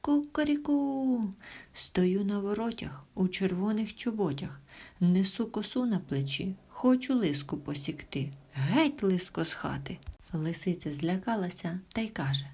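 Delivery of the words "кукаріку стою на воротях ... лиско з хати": rooster's shout. Acted. Rooster shouts at the fox from the gate, crowing. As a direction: crow it out proudly like a rooster at the gate. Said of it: "і кричить".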